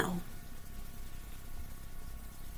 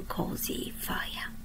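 slow whispered ending, drawn out; hushed refrain; 8 dB quieter, much slower than usual. A narrator's reading. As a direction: breathe the last words like a lullaby. Refrain end of each verse.

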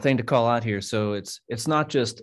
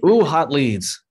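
excited ooh; 4 semitones higher, 9 dB louder, much slower than usual. Real, not acted. Teasing announcement of the feature.

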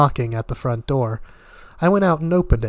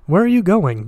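a higher, louder alarmed demand; sudden alarm; 7 semitones higher, 4 dB louder than usual. A narrator's reading. Gatsby, panicked, demanding where his friend is going. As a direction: blurt it out, suddenly frightened he'll be left alone. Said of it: "demanded Gatsby in immediate alarm".

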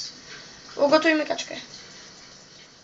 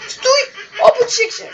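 high, loud call to wake it; urgent loud call; shouting; 9 semitones higher, 7 dB louder than usual. Real, not acted. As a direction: yell up at the moon, much higher. Shouting at the moon.

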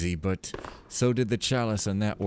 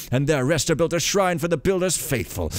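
lively, sing-song storybook reading; story narration; 6 semitones higher, 4 dB louder than usual. A narrator's reading. Gamer reading lore aloud as a tale, storytelling voice. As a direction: read it like a grand old fable.

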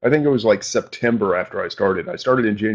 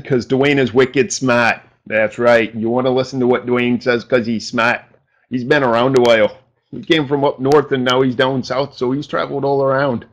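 attempted New England accent. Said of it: "almost nailed the accent".

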